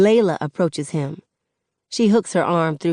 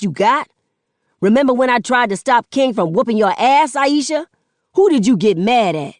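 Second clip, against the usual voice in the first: angry accusation; 4 semitones higher, 5 dB louder than usual. Acted. Son accusing mother.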